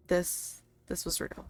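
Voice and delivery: a breathless whispered realization; shocked whisper. Acted. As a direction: let it escape under the breath.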